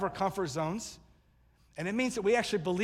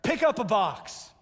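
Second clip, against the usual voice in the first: slow, raised, emphatic order; acted rallying command; 4 semitones higher, 4 dB louder, slower than usual. Preacher voicing Paul to the church in Rome, emphatic command. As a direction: call it out slowly, hitting each word. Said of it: "Paul has just said to the church".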